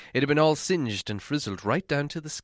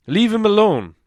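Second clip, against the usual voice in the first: stern dwarf; 8 semitones higher, 9 dB louder than usual. Acted. Thorin rebuking Bilbo.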